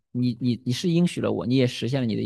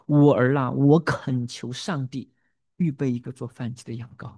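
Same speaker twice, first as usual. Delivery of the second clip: pleading prayer. Acted. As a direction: pray it, leaning into “恳求”. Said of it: "这是他的祷告". (缓慢恳切地像祷告一样说出)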